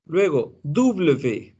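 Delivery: ordinary delivery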